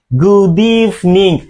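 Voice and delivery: slow, careful "Good evening" with ee in "evening"; model pronunciation. Shown as a demonstration. Teacher drills "Good evening" slowly for the class. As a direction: drag out "Good evening" so they copy it. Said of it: "Repeat again".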